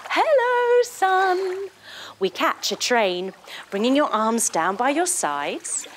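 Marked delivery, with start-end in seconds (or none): 0.1-1.7 cheery hello. Pretend. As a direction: call up to the sun brightly. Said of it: "reach up to the sun to say".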